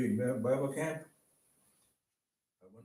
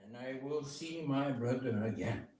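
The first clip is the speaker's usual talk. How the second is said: earnest spoken prayer to God; heartfelt prayer. Acted. Man praying to God in thanks and repentance, earnest. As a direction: pray it aloud, repenting and thankful. Prays aloud.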